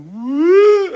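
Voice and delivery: high, loud startled whoop; startled yelp. Retold or imitated. Maintenance man spots the hand and bolts, high shriek. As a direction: yelp like you just saw a body. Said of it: "He went".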